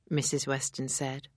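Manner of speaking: plain reading voice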